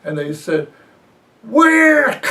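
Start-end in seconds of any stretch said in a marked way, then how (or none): 1.4-2.2 high, loud incredulous squeak; baffled where. Retold or imitated. Radio caller squeaking in disbelief at Waco. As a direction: shoot the word up in disbelief.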